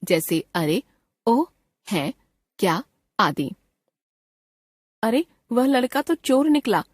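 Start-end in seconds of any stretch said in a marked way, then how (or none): 5.0-6.8 surprise. Shown as a demonstration. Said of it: "विस्मय या आश्चर्य सूचक".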